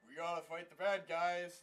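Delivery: low, loud mock old-man voice; hammed-up old guy impression. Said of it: "an old guy, and he's like".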